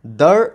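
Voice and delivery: দার set apart on its own; separate syllable. Shown as a demonstration. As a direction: say দার as the detached second syllable of the word. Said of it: "আলাদা উচ্চারণ করতে হচ্ছে". (দার আলাদা করে উচ্চারণ)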